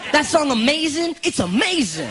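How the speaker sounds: put-on high, eager teen cousin; imitated high-pitched enthusiasm; Darwish. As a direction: excitedly share a new discovery. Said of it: "one time he was like".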